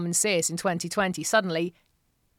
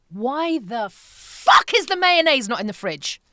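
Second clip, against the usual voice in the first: mock angry; 3 semitones higher, slower than usual. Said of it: "that angry".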